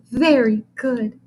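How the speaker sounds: slow gushing praise. Acted. Teacher praises the boy, gushing slowly. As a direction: gush over the boy. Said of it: "she gushed".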